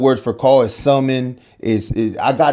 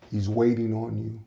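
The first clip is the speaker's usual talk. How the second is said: eerie quiet line; 2 semitones lower, 8 dB quieter than usual. Retold or imitated. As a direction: say it like a voice from beyond. Friend's eerie message from God.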